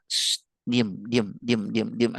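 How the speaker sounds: low, soft hushing with repeated short words; mock hushing of a child; imitated parent shushing. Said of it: "kita langsung bilang satu kata-kata".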